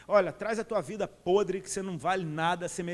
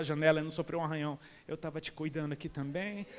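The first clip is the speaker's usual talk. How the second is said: tender voice of God; 3 semitones lower than usual. Acted. Preacher voices God's tender reminder.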